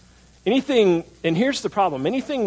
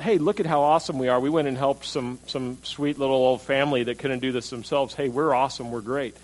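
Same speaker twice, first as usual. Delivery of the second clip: mock boastful. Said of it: "the difference in those attitudes".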